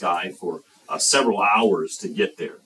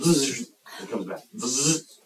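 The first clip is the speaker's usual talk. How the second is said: imitated fly buzz; 3 semitones higher, 3 dB quieter, slower than usual. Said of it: "as soon as they're gone".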